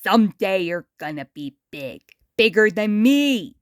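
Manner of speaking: put-on a worn-out celebrity talking down to a kid; Muddy Mud Skipper.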